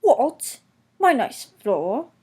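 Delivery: grumbling guard outraged. A narrator's reading. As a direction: protest indignantly. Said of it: "grumbled the guard".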